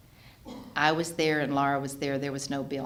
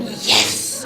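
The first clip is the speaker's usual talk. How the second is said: mock cheer; 5 semitones higher, 7 dB louder than usual. Daughter cheering the verdict.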